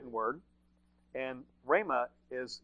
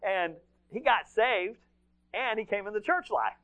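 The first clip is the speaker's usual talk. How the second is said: elated testimony, breaking toward a laugh; delighted punchline; 8 semitones higher, 6 dB louder than usual. Real, not acted. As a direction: land the happy ending with raised pitch. Triumphant punchline of the door story.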